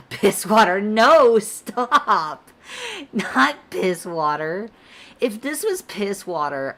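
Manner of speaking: high, loud, laughing shouts of disbelief; cracking up while telling chat to stop; laughing protest. Real, not acted. Streamer reacting to chat's piss water joke, laughing loudly.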